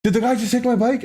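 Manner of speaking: high-pitched incredulous yell at the neighbors; retold shout. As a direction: call out in disbelief, pitch shooting up. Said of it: "I remember shouting at them".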